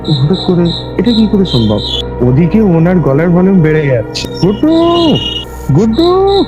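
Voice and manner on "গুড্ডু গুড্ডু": imitated call sliding up to a very high held note; rising to high note. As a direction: call the name higher each time, without shouting. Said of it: "high নোটে কিন্তু বেড়ে যাচ্ছে".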